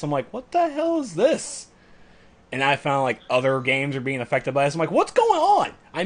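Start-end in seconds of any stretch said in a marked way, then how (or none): 0.3-1.7 high, drawn-out disbelief; mock bafflement. Retells baffled reaction to outage. 4.9-5.7 high-pitched, hammed-up confusion; mock bewilderment. Retells baffled reaction to outage.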